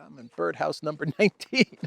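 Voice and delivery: lightly voiced little bird. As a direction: answer as a tiny bird, playful. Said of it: "Mister Bird?".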